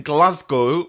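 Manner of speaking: botched attempt at a Scottish accent; terrible Scottish accent. Host reading out caller's city, terrible Scottish accent. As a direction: say it in a poor Glasgow accent. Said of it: "that was a terrible accent".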